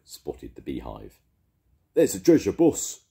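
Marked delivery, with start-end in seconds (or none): 1.9-3.1 high, loud, eager pirate voice; a gleeful pirate tipping off his boss; pirate crewman. A narrator's reading. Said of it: "he said".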